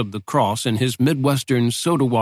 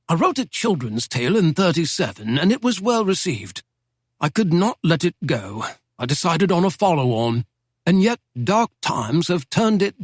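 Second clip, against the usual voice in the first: put-on a lightly raised, genteel old don's voice; old British professor; 5 semitones higher than usual. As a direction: speak as a wry Oxford professor reminiscing. Professor describes his book.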